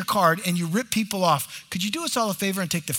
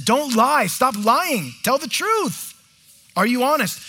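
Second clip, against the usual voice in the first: firm rebuke; 5 semitones higher, 4 dB louder, slower than usual. Real, not acted. Preacher exhorts congregation.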